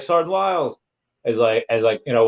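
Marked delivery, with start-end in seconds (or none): 0.0-0.8 raised-pitch call to the sergeant. Retold or imitated. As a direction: sing out the name, eager. Trainee calling to instructor.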